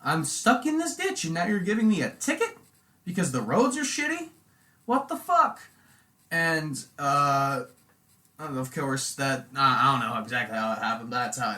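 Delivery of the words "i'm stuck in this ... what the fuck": high, loud furious yelling; dad yelling at the lady cop over the ticket, high and loud; freaking out. Retold or imitated. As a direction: lose it at the cop, pitched way up and shouting. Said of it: "my dad kinda fucking freaked out on her".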